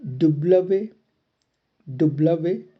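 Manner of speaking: डुब्लवे, doo-bluh-veh; French W. Shown as a demonstration. Teacher demonstrates French W as डुब्लवे. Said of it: "डब्ल्यू".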